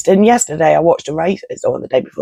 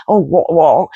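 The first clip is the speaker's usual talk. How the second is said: posh mock exclamation. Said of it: "stiff British upper lip".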